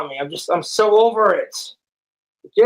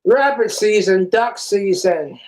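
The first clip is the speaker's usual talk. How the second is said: cartoon bit; 2 semitones higher than usual. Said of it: "reenacting old comedy bits from old cartoons".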